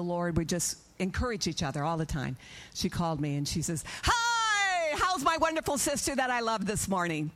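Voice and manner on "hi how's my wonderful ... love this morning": very high, long squealed hello, easing down; gushing greeting. Retold or imitated. Sister phones her in the morning, gushing high greeting. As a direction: greet a beloved sister with imitated gushing cheer. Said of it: "that's how we talk to one another".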